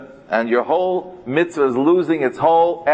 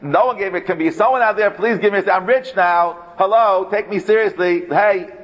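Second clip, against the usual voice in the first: pleading for respect; 4 semitones higher than usual. Retold or imitated. Voicing someone begging for respect.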